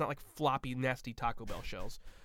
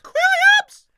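loud, high shout of a name; 20 dB louder than usual. Pretend. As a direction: yell the name out. Shouting friend's name back.

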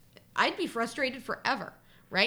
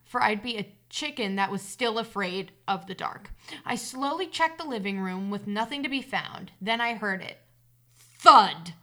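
story narration; 4 dB louder, slower than usual. A narrator's reading. Reader telling listeners of a childhood hide-and-seek scare, story narration. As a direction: read the tale aloud, measured and deliberate. Reads a personal story aloud.

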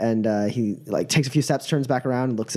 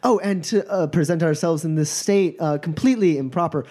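flustered apology. Acted. Laborer apologizing to noble.

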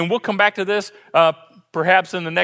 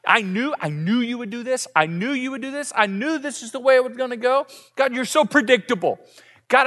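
Jonah blaming God; 3 semitones higher than usual. Retold or imitated. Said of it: "blaming God for the whole trip".

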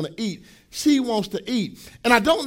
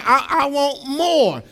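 daughter's plea; 4 semitones higher, 3 dB louder, much slower than usual. Retold or imitated. Daughter quoted, shaking her head.

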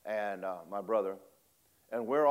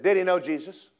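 put-on child asking; 7 semitones higher, 8 dB louder than usual. Five-year-old asking loudly.

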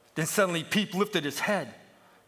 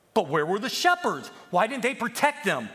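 raised, louder challenge; urgent questioning; 7 semitones higher, 6 dB louder than usual. Acted. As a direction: demand an answer from the other sheep. Peep challenges the older sheep.

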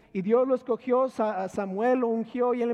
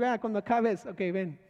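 sarcastic; 3 dB quieter than usual. Retold or imitated. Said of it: "empezaron sarcásticamente a decir".

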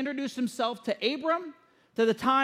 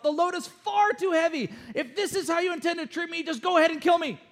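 worked-up, higher-pitched complaint; exasperated; 4 semitones higher than usual. Acted. Moses telling God the load is too heavy, exasperated. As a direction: plead as someone at the end of their rope. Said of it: "think about how exasperated he is".

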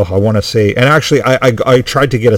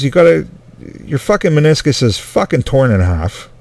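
exasperated doctor; 4 semitones higher than usual. Retold or imitated. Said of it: "I'm just gonna talk like I was the doctor".

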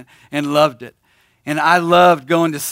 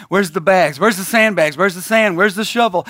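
mock panic; 3 semitones higher than usual. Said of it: "I did not panic and say".

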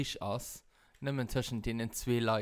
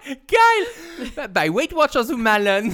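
laughing; 10 semitones higher, 12 dB louder, slower than usual. Real, not acted. Bursting out laughing at a joke.

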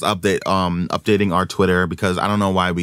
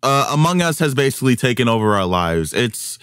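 mic peaking and distorting; clipping distorted mic. Real, not acted. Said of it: "my mic is peaking, uh, like, crazy".

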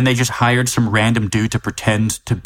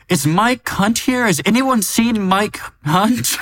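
mock scream; 10 semitones higher, slower than usual. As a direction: call out across a restaurant, stretching it. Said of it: "she just screams throughout the restaurant going".

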